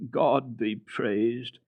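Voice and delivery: very slow grateful exclamation; drawn-out thankful joy; joyful. A narrator's reading. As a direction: blind grandmother greeting the child, slow and joyful. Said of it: "she always exclaimed joyfully".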